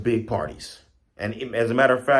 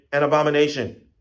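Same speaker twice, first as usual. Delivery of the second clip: raised, louder cry of alarm; a restrained imitation of screaming monkeys; mock scream; 7 semitones higher, 6 dB louder, faster than usual. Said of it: "They hear them screaming".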